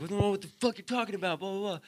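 high-pitched imitation of a ranting guy; put-on protest tailing into mockery; mock indignant retort. Acted retort of the angry man.

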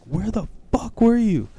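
high-pitched retold outrage; pissed mother. Mom confronting the son who stayed out, imitated high-pitched outrage. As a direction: demand it like a mother at the end of her rope. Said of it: "the wife was pissed".

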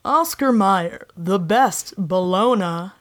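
slow announcer voice, lightly done; a hint of a commercial voiceover. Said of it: "there's a voiceover of, like, a man".

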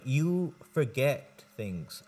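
deliberate, drawn-out mock accusation; slow, emphatic telling. Friend telling others they forget what they say, slow and emphatic.

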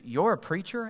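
puzzled double-check, mildly taken aback; shocked disbelief. Acted. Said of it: "like they're shocked".

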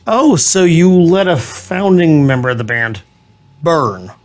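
ordinary delivery

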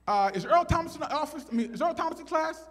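high-pitched office announcer; put-on high voice asking officially; school office intercom. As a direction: imitate a secretary over the PA. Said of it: "all of a sudden, I hear".

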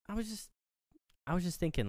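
high, soft, halting imitation; retold hesitancy. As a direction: broach it carefully in a small, high voice. Sydney hesitantly broaches her suspicion.

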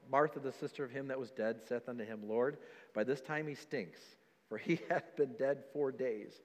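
soft, low Bible reading; scripture reading. Acted. Preacher reads Martha's words to church, subdued scripture reading. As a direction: read the verse out quietly and low.

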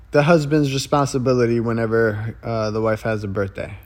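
stiff formal voiceover; training video narrator. Pretend. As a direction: read it like an old military film. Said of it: "nineteen forties training video".

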